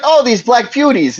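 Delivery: high smug Archie Bunker. Retold or imitated. Archie explaining himself, high smug. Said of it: "he's like".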